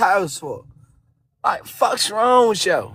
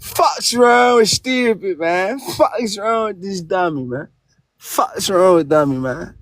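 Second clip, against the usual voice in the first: angry yelling; 3 semitones lower than usual. Real, not acted. Angry back-and-forth over his accent.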